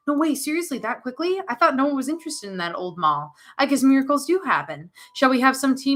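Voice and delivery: put-on playful child. Little Alex playing tea party.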